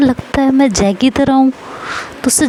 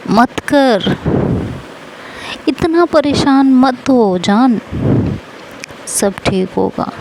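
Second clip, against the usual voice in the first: gentle reassurance; 3 semitones higher, slower than usual. Acted. Neha comforts crying Rashmi.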